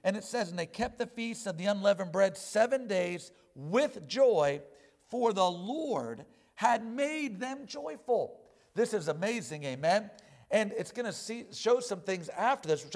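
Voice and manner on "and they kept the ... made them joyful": reads the verse steadily, a touch formal; measured Bible reading; scripture reading. Acted. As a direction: read the text aloud to the congregation.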